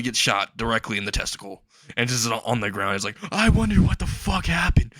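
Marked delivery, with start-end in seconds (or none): 3.3-4.9 high mock-pained cry; hammed-up wounded bystander; acted bewilderment. Shot bystander on the ground.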